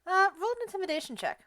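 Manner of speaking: words chopped by noise gate. Real, not acted. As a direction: voice cutting in and out. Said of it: "You're cutting out".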